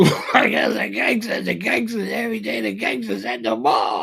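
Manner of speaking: laughing mockery. Mocking gangsters, laughing.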